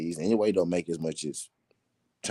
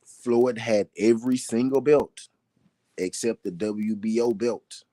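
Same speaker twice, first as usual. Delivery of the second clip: higher, measured emphasis with a pause before "except"; slow, deliberate repeat; 3 semitones higher than usual. Shown as a demonstration. Host repeating Floyd's belt record for doubters, slow and deliberate. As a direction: spell it out deliberately, phrase by phrase. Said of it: "I'm gonna say that slow".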